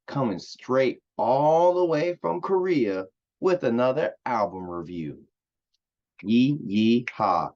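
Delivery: mock cowboy whoop in a Texas accent. Opening his album review from Korea in a mock Texas accent. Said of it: "I'm doing a Texas accent".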